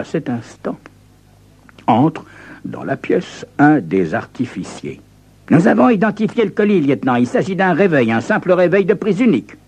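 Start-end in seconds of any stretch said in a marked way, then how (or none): 5.5-9.5 brisk expert report. Acted.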